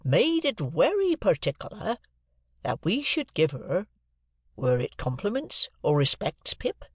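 halting rustic recollection; effortful remembering. A narrator's reading. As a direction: feel for each phrase. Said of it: "like an effort of remembrance".

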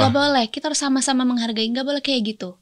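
mild, controlled reprimand; firm scolding. Pretend. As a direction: hold the line with a difficult patient. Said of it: "Ih, dokternya galak". (menegur tegas, tidak galak)

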